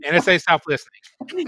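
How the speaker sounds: a hint of Greedy, lightly voiced; Greedy's voice. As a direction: echo the line in Greedy's manner. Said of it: "in Greedy's voice".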